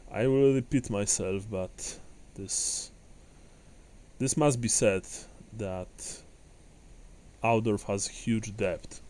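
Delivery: put-on halting speech in a light Kislevite accent. Host thanks heroes for Aldorf's debt, Kislevite accent. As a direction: Kislevite accent, measured and formal with pauses.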